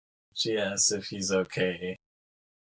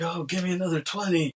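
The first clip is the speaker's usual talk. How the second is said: high, lightly voiced greedy boss; mock McKay demand; 8 semitones higher than usual. McKay asking for another twenty bill, smug high voice.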